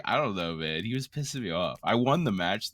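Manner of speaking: normal talking voice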